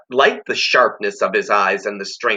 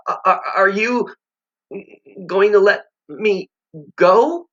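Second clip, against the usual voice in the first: timid murmur; 10 semitones higher than usual. Acted. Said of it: "he murmured".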